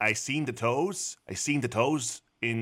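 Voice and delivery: slow Wisconsin-accented impression; Brendan Dassey. Host recalling Making a Murderer, slow Wisconsin accent. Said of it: "I think of Brendan Dassey".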